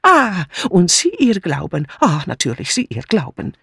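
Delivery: put-on broken German with a strong foreign accent; scornful outburst from an agitated foreign maid; indignant foreign maid. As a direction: play an aggrieved refugee with accented German. Narrator plays indignant foreign maid Mitzi.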